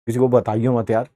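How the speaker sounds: low, soft plea for secrecy; imitating a secretive aside; hushed plea. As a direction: keep it down, asking a friend to stay quiet. Retold secret plea to cousin.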